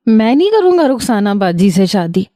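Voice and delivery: tearful, voice changed: میں نہیں کروں گا رخسانہ باجی سے شادی; a weepy refusal with a changed voice. Acted. Crying brother refuses to marry his cousin, tearfully. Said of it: "رونا پیٹنا مچا".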